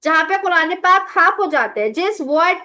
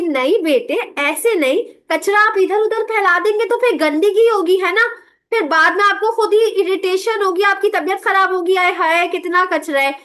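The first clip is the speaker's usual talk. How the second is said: gentle coaxing; 2 semitones higher than usual. Shown as a demonstration. Teacher gently explaining to a child about trash, tender. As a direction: coax the child kindly, no edge. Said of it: "जब मैं प्यार से बात करूंगी".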